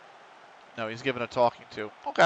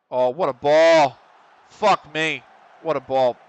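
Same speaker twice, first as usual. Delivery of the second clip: impressed; 10 dB louder than usual. Real, not acted. Admiring a pass.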